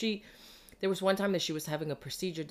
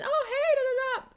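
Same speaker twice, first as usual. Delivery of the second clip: very high breezy chirp; a hint of mom's bright hello; cheery mom greeting; 4 dB louder than usual. Mom greeting her doctor.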